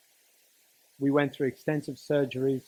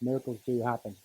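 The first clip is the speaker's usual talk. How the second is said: softer repeat, "do" stressed, falling; softer sincere echo; 3 semitones lower, 5 dB quieter than usual. Shown as a demonstration. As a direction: say it again gently and let "do" land. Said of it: "I want you to know miracles do happen".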